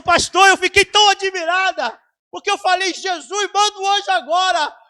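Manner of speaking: high, loud and amazed; loud, high, breathless wonder; excited retelling. Retold or imitated. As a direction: tell it bursting with amazement. Woman retells amazed to pastor.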